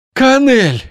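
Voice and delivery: very high, loud cry of terror; panicked cry. Acted. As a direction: scream her name in fear. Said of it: "выдохнула высокородная".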